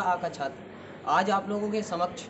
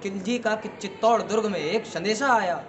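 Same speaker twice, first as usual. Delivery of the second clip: measured verse delivery with ringing line ends; heroic poem recitation. Acted. Student reciting a battle poem to an audience, declamatory. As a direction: declaim it as a rhythmic Rajput ballad.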